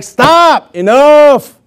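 sharp high shout to cut them off; stern stop. Retold or imitated. Jesus stopping the squabbling disciples, high firm shout.

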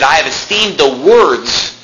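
slow line landing on WORDS; lingering emphasis on "words"; stress on WORDS. Shown as a demonstration. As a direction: draw out "words" to point up the plural. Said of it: "again plural".

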